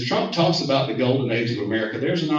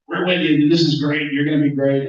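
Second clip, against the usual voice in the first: lightly voiced Trump; 3 semitones higher, 6 dB louder than usual. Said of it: "he talks funny sometimes".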